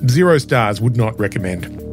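hoarse and raspy from the flu; flu-worn scratchy throat. Real, not acted. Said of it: "please excuse the scratchy voice".

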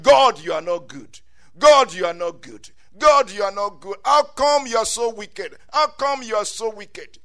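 loud, accusing complaint to God; mock outcry, hit hard on the first words; acted crying out. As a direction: hurl the reproach at heaven. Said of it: "They cried, saying".

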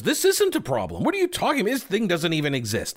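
high, scoffing disbelief; mocking dismissive. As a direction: scoff like it's nonsense. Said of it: "first line of defense".

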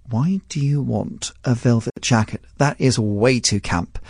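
slow, deliberate maternal disapproval; disapproving mum. Retold or imitated. Mum objecting to a velvet jacket, slow disapproval. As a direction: draw it out like an unimpressed mum. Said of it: "my mum said to me".

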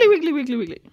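high, squeaky mock backing singer; imitated high-pitched refrain; squeaky backup vocal. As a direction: chirp it like a silly backup vocal. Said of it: "a squeaky backup vocal".

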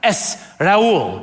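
Spanish "Es Raul", no H; correcting to Raul. Retold or imitated. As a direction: correct them with "Raul", vowels run together. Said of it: "they'd be like".

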